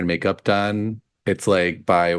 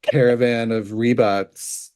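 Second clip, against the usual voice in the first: Sethos as show host; 2 semitones higher, slower than usual. Pretend. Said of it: "Sethos or someone being like".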